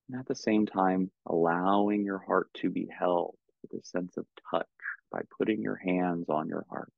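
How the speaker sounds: calm, unhurried meditation guidance with long pauses; measured, soothing meditation teacher; guided meditation. Real, not acted. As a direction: guide them gently into stillness, leaving space between phrases.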